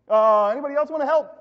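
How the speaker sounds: high, loud, quick comic appeal; calling for others. Acted. Believer who won't trust God, calling for others. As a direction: cast about loudly for another helper.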